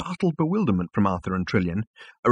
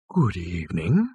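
lightly voiced cow-like animal; a hint of bovine lowing. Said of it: "it lowed".

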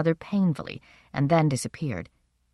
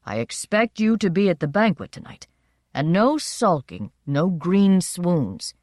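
stern father. Acted. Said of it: "because fathers must be stern".

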